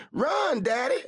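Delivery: very high frantic urging. A narrator's reading. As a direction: beg him to run. Amabel urges flight.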